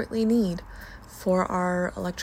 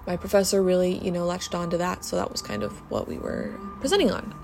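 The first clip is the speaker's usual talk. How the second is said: street noise through open window; talking by an open window. Real, not acted. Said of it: "my window is open".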